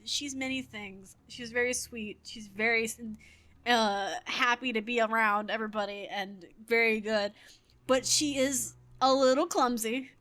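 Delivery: slow, measured diplomatic praise; mock-tactful teacher choosing each word with care; veiled sarcasm. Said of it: "I realized the sarcasm".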